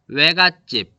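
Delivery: 외 in 외갓집 as a gliding "we"; everyday diphthong in 외갓집; everyday pronunciation. Shown as a demonstration. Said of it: "여러분들이 발음하는 거 그대로".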